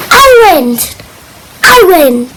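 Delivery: mock angry gloating at winning; a child's pretend sore winner; a touch of pretend anger. Shown as a demonstration. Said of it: "then you get angry".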